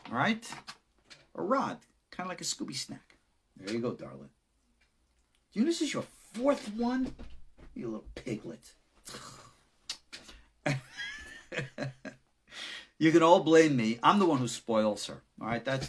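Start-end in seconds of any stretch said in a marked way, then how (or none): 3.6-8.7 fond pet talk. Real, not acted. Talking fondly to the dog. 10.6-12.1 high laugh. Real, not acted. Laughs at spoiling the dog.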